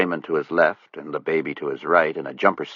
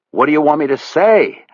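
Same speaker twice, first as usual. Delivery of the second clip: higher, steadier Buddy voice; more controlled; 8 semitones higher, 4 dB louder than usual. A narrator's reading. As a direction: hold it together now. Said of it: "His voice was more controlled now".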